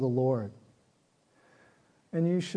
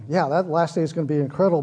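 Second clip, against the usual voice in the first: quick hypothetical quote; 5 dB louder, faster than usual. Retold or imitated. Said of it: "responded to her words by saying".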